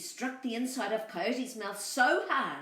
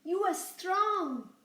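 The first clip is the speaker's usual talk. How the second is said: high bleating lamb voice, louder; 11 semitones higher, 5 dB louder, slower than usual. Acted. Lamb tricking the coyote, high bleating voice. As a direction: bleat the words like a little lamb. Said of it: "said Boragita".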